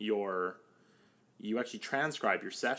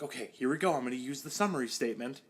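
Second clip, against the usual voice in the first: nervous self-talk; 3 semitones higher, faster than usual. Retold or imitated. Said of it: "internal dialogue going on".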